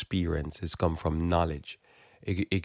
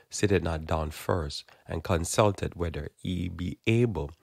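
scripture reading. Acted. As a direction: read it out like holy writ. Reads Luke scripture.

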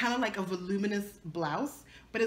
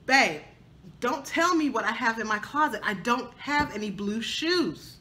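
retold telling off; 2 semitones higher, 4 dB louder than usual. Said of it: "I shouted him down".

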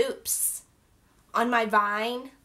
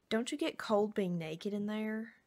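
put-on British accent; 5 dB quieter than usual. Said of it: "My accent".

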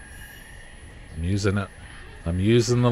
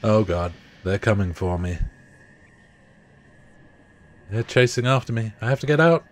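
being chased; 3 semitones higher than usual. Real, not acted. Chased by monsters.

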